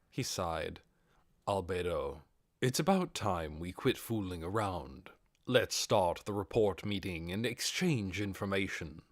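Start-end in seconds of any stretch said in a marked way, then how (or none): 1.5-9.0 lightly lowered Ainz. Acted. Ainz lordly, voiced lower.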